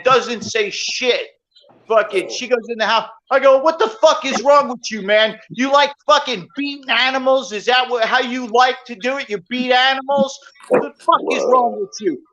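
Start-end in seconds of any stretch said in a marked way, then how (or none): 3.6-12.2 retold angry scolding. Berating neighbor over hitting dog.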